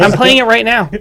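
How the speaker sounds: high, loud laughing gloat. Real, not acted.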